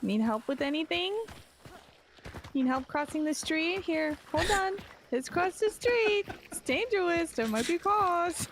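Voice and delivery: doting caretaker voice. Pretend. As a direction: talk to him like a frail elder. Helping an old man across.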